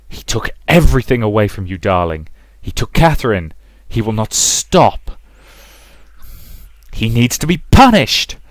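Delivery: stoke her hatred like a dark temptress; coaxing mother. Acted. Mother coaxing Rosa to let hate burn, intense coaxing.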